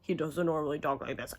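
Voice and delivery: lightly imitated low, quick brooding voice; Ryan's low voice. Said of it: "that's not how his voice sounds".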